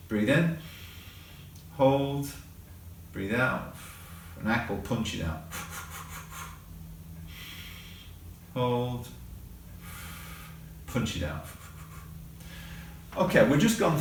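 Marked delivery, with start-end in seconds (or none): 0.1-11.4 box breathing cues. Shown as a demonstration. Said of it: "the final one is box breathing".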